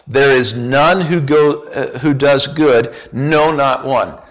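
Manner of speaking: a touch of pulpit reading; emphatic scripture reading. Acted. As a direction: read the verses as a proclamation. Reads Romans 3 with emphasis.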